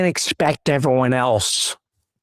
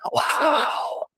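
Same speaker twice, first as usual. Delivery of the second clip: whispered wow; 5 dB quieter than usual. Retold or imitated. Inner reaction, unvoiced.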